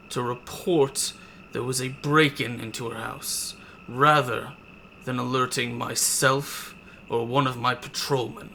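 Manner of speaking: slow, measured lawman's rebuke; lightly voiced sheriff, slow and cold; stern sheriff. Sheriff coldly lectures the party, slow and measured. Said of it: "he says".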